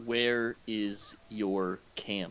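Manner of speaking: slow, cold interrogation; menacing question. Acted. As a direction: lean in slowly and threaten. Interrogating a captive goblin.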